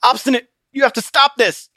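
choked, strained plea; gasped plea. Acted. Christian choked by Obstinate, gasping plea. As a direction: force it out past a crushed throat. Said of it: "Christian gasped".

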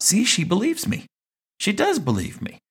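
put-on childlike inner voice. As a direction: pitch way up as a little boy. Child's triumphant inner thought.

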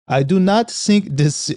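put-on light German accent. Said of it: "apologies for the, the accent".

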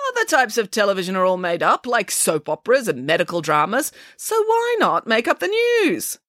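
lightly voiced pig arguing breezily; cheeky, confident rebuttal; Nanny Piggins, self-assured. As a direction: reason it out, swooping high at the end. Nanny Piggins argues back.

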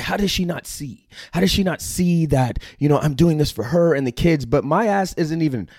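a hint of his past self, pleading to be understood; retelling his own frustrated thoughts. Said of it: "I was like".

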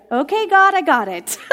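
high, loud, laughing "okay God"; half-laughing as if caught out by God; laughing realization. Retold or imitated. Preacher retelling her answered prayer, laughing high and loud.

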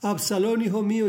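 lightly acted grief of a father; mournful lament. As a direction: cry out for a lost son, without real tears. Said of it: "Lloraba y decía".

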